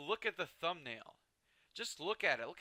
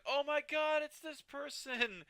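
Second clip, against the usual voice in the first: excited fan; 13 semitones higher, 3 dB louder, slower than usual. Pretend. Imagined fan recognizing him.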